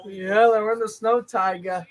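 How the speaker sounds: slipping into a Boston accent; a light Boston accent on these words; lightly Boston-accented chat. Real, not acted. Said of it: "talking my Boston accent right now".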